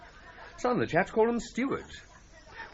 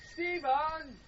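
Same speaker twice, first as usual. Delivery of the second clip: high call across the camp; 9 semitones higher, 6 dB quieter than usual. Acted. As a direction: call his name out far. Calling the servant louder.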